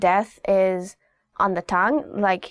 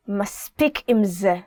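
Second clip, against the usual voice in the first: stern; faster than usual. Shown as a demonstration. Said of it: "this is more of a parent thing".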